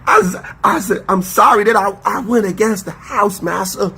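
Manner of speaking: mock slave voice. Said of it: "this how you really sound".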